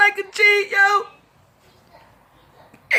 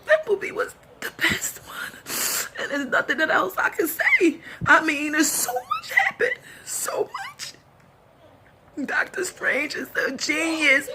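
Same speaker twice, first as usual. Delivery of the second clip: crying; 6 dB quieter than usual. Real, not acted. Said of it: "I see me with the ugly cry".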